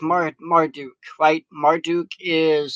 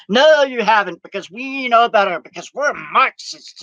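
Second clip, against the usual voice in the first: mock accuser; 5 semitones higher, 4 dB louder than usual. Mock Marxist accuser retort.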